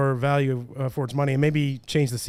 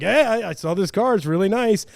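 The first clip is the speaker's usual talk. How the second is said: imitating a cop; 6 semitones higher than usual. Cop quoted in retold story.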